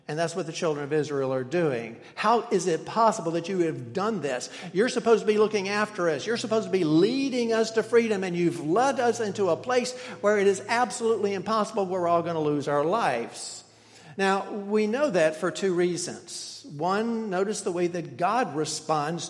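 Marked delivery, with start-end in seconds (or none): 2.1-13.6 mild mock outrage, quick and slightly raised; complaining accusation. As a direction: rattle off the grievance like a frightened crowd blaming their leader. Israelites accusing Moses, voiced.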